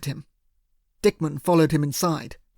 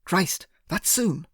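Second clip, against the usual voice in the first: uneasy thug; 2 semitones higher, slower than usual. A narrator's reading. Doug uneasy.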